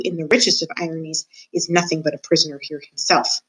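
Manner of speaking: a lightly voiced, gloating old jailer; a hint of a menacing jailer taunting the mouse; creepy old jailer. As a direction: savour every word like a sly old jailer in the dark. Gregory's voice again.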